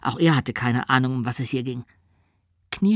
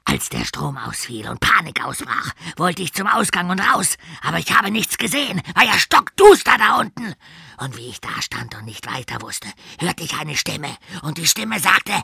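yelling coach; 4 dB louder than usual. Acted. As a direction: rant louder and louder. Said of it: "Er brüllte einfach weiter".

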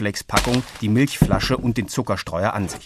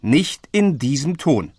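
higher, louder, slowing rebuke; stern father; 6 semitones higher, 3 dB louder, slower than usual. A narrator's reading. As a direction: warn her off her tone. Father reprimanding daughter. (Vater ermahnt die Tochter)

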